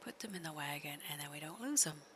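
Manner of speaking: hushed conspiratorial whisper. Real, not acted. Whispering the plan to the player. Quietly plotting during horse ride.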